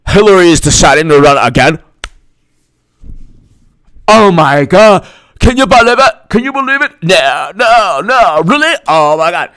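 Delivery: mock outraged disbelief, pitch climbing; far-left impression. Activists hear Hillary runs again, hammed-up disbelief. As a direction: gasp it out like a scandalized activist. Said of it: "this is my impression of the farthest left".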